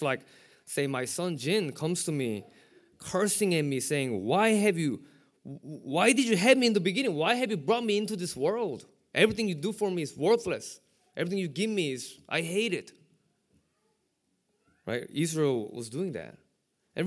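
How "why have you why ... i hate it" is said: angry son. Retold or imitated. Son cursing at parent imitated.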